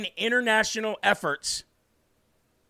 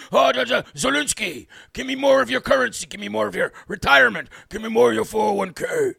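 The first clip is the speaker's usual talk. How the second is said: mock Zelensky begging; 3 dB louder than usual. Mocking Zelensky begging again.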